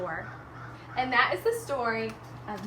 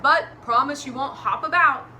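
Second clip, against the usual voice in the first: Mister Gumpy consenting; 7 dB louder than usual. Acted. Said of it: "Mister Gumpy said".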